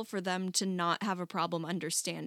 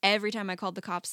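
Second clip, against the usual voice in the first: ordinary talk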